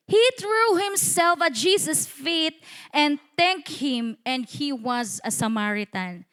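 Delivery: slow verse reading, falling away at the end; scripture reading. Acted. Preacher reads verse sixteen to congregation, slow scripture reading. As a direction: read it out deliberately, phrase by phrase.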